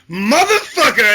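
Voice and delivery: mock rage yell. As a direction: bark the curse like a madman. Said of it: "you're like".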